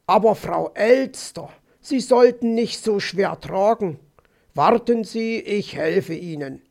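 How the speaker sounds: a touch of courtly concern; lightly voiced gallant fox. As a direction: offer help as a gentleman fox. (leicht gespielter, galanter Fuchs)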